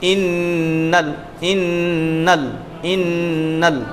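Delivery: innal with no drawn vowel; इन्नल said briskly, lam not lengthened; short unstretched innal. Shown as a demonstration. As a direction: say इन्नल short and clipped, no stretch. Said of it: "तो यहाँ तो खींचना है ही नहीं".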